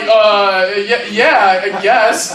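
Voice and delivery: hesitant agreement. Acted. Intimidated neighbor answering kid's demand.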